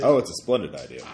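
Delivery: put-on British accent. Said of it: "I don't know why it's British".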